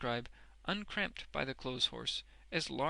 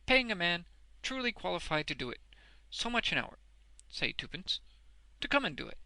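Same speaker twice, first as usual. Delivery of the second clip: high, loud, deliberate pitch; Boffin making his offer; 5 semitones higher, 5 dB louder than usual. A narrator's reading. Boffin offers Wegg pay to read, emphatically. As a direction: propose it phrase by phrase.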